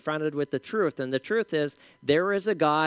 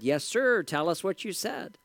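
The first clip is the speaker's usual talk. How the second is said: lightly imitated bubbly radio host; 3 semitones higher than usual. Bubbly DJ prompting the caller on air, lightly imitated. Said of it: "The bubbly D J said".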